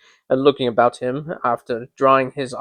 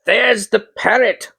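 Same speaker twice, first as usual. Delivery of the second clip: higher, slow excited cry; 7 semitones higher, slower than usual. A narrator's reading. Scrooge seeing the parrot, excited cry. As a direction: point it out with childlike delight. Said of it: "cried Scrooge".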